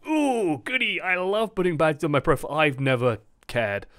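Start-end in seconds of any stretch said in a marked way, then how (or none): 0.1-2.5 mock delight. Sarcastic fake delight about badges.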